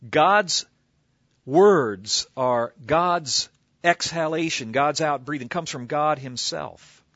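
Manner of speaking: God's hit loud, words drawn out slowly; emphatic preaching. Acted. Preacher driving home that God breathed out, loud and slow. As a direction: lean hard on God's words as exhalation.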